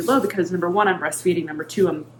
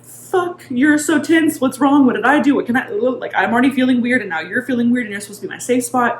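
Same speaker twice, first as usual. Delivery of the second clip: voicing the baby; 5 semitones higher than usual. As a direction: play the anxious baby asking what's wrong. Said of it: "they're kind of like".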